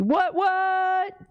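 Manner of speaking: high, startled double what; real stunned surprise; shocked disbelief. Real, not acted. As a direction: blurt it out in disbelief. Panicking over surprise order.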